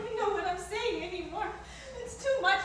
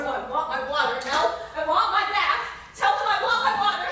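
louder, insistent demand for her bath; demanding outburst; 4 dB louder than usual. Acted. Wife demands water from her husband, insistent and loud. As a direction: push it like a frustrated, fed-up wife.

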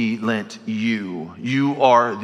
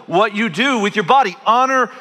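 voicing Paul; 9 semitones higher, 4 dB louder than usual. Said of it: "he's just saying".

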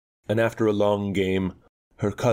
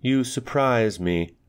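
dry; 6 semitones higher, slower than usual. Acted. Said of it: "I said rather dryly".

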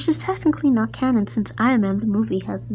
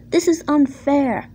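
higher-pitched indignant protest; snapping; 4 semitones higher, 4 dB louder than usual. A narrator's reading. Edward objecting to his punishment, snapping. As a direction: protest hotly at unfair treatment. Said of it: "snapped Edward".

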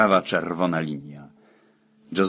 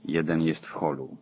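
frightened whisper; 7 dB quieter than usual. Acted. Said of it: "Mówiła przerażonym szeptem".

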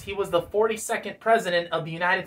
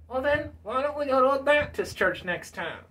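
high-pitched puppet voice; put-on high character voice, pressing the point; Bill Clinton puppet; 5 semitones higher than usual. Puppet suggests a Baptist church, challenging. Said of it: "Bill Clinton".

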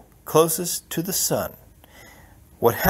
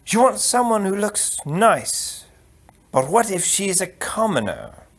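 higher, measured count's voice; insinuating count; 7 semitones higher than usual. Acted. Count proposing a bride to the prince, measured insinuation.

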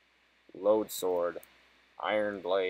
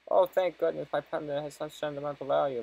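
lady NPC voice; 6 semitones higher than usual. Acted. Reads lady NPC's lines aloud.

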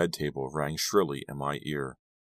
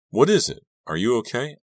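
sudden high, loud alarmed questions; alarmed worry; 8 semitones higher, 7 dB louder than usual. A narrator's reading. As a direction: jump up in pitch, worried for him. Worried girl on phone.

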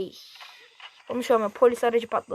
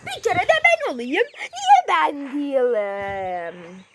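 laughing whine; slower than usual. Real, not acted. Whining about not being chosen.

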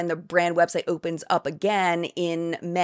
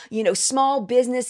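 sarcastic mockery; 4 semitones higher than usual. Sarcastic mock of MLM pitch.

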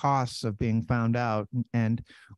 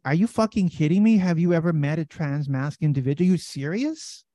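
incredulous outburst; 4 semitones higher, 4 dB louder than usual. Retold or imitated. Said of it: "And I'm like".

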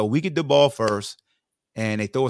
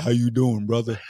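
expected deep greeting. Retold or imitated. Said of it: "you gonna be like".

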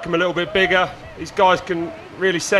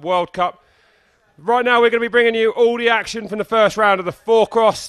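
sports presenter; 2 semitones higher than usual. Acted. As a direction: open the show like a broadcaster. Opens the live broadcast.

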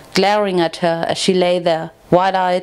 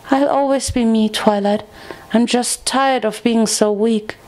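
lightly voiced timid friend, resolved; 3 semitones higher than usual. Friend reassuring Twilight she stays herself, mildly determined.

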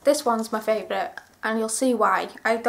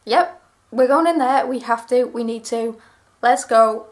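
eager yes; 5 dB louder than usual. Retold or imitated. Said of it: "Now, I was like".

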